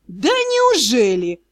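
long, slow sarcastic drawl; sarcastic disbelief. A narrator's reading. Magister answers the drow's rebuff, sarcastically drawling.

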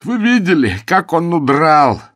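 high, loud and slow; agitated demand; frantic. A narrator's reading. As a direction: press him in disbelief. Ukridge frantic at Bilson.

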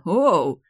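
sharp loud ow from an elbow to the ribs; pained ow. Acted. Hero elbowed in the ribs by Demia, loud pained ow. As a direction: yelp of pain, loud and sudden. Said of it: "схватился за ребра".

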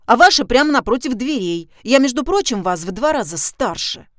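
petulant, rising complaint; capricious. A narrator's reading. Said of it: "капризным голосом".

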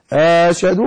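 أشهد with a long opening "aaa"; lengthened hamza. Shown as a demonstration. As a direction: stretch the first vowel of أشهد. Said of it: "كأنها يعني تسهيل المد".

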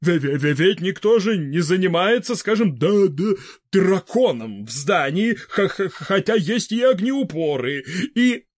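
halting, stuttering on first sounds; stammering old man. A narrator's reading. Fedor Semenovich nervously objecting to Vybegallo, stuttering. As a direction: trip over every opening syllable, nervous.

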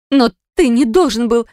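cut-off desperate wife; Narine's plea. A narrator's reading. Wife protests, cut off by husband.

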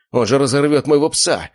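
high, loud desperate cry; panicked yell. A narrator's reading. Slavik fearing for his dog, panicked yell. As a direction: scream it in panic.

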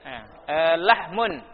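usual speaking voice

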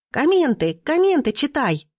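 put-on high, excited girlish squeak; squealing. A narrator's reading. Girlfriend to teenage boy reading the phone, squealing. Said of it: "запищала его подруга".

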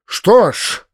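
high, impatient shout. A narrator's reading. Master to Vidoplyasov as he enters, shouting. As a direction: call out sharply to the servant. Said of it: "закричал он вошедшему Видоплясову".

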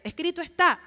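proclamar con firmeza, más fuerte y agudo; declaración tajante. Acted. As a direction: declare it loud and high, like a rebuke. Repeats the rebuke to Satan. (proclamación firme, en voz alta)

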